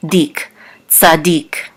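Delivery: tzadik with stress on DIK, drawn out; last-syllable stress. Shown as a demonstration. Teacher showing where the accent falls, stressing tzadik's last syllable. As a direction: slowly say "dik", then "tzadik" leaning on its end. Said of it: "the accent is on the last syllable".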